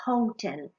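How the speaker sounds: "hotel" said the English way as "owtel", with no h; English pronunciation. Shown as a demonstration. Teacher modelling "hotel" for students, said "owtel". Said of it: "si te pones la mano aquí, el sonido sale de dentro".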